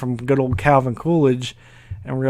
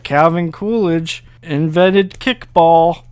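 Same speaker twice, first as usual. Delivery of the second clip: slow, higher, louder mock authority; bluffing slowly and loudly; confident bluff; 4 semitones higher, 4 dB louder, slower than usual. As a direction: sell the lie with a straight face. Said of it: "I was like".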